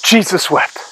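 imitating people who use it as a saying; exclaimed stock phrase. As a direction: say it as a mild exclamation of dismay. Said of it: "as, like, a phrase".

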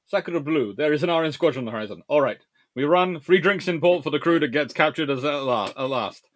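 light, hammed-up French accent reading a chat joke; a passing stab at a French captain's accent. Streamer reads a viewer's joke in a mock French accent. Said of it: "speaking in a French accent".

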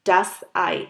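Ei said as eye; German demo word. Shown as a demonstration. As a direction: model Ei with the ai sound. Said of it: "example সেটার জন্য". (Ei উচ্চারণ আই)

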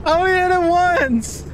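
squeaky giggly denial; high laughing protest. Real, not acted. Defending while laughing.

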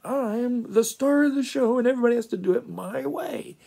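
high, loud self-important show-off; Nick Bottom. Acted. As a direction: declare it like the star of the show. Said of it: "And so Nick Bottom says".

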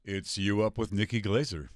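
slow smooth radio announcer. Shown as a demonstration. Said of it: "Can you give us a little sampling of it?".

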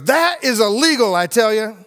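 preacher voicing the stranger's joke; street man voice. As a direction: pop it out as the man at the window. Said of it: "He goes".

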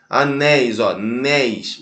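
"Anéis" split, then "néis" repeated slowly; stress on last syllable. Shown as a demonstration. Teacher points to the final syllable, "néis" drawn out. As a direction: isolate and stretch "néis" from "Anéis". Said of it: "última sílaba".

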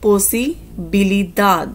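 posibilidad spoken very slowly syllable by syllable; slow teaching demo. Shown as a demonstration. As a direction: stretch posibilidad for learners. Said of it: "next word ਹੈ ਪੋਸੀਬਿਲਿਟੀ". (posibilidad ਨੂੰ ਬਹੁਤ ਹੌਲੀ ਬੋਲੋ)

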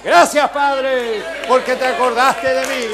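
loud, slow grateful cry; joyful outburst of gratitude; tearful thanks. Retold or imitated. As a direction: thank God with your whole chest. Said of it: "y yo".

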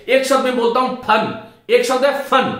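फन with a clear nukta, फ़ as a breathy f; nukta pronunciation demo. Shown as a demonstration. Teacher shows students फन with the nukta, carefully. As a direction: say फन as फ़न, lips barely touching. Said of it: "तो मेरे मुख की तरफ ध्यान दे".

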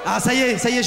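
sudden excitement. Acted. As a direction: shout it like he just found treasure. Finds his lost idea, exclaims. (s'exclame, tout excité, plus fort)

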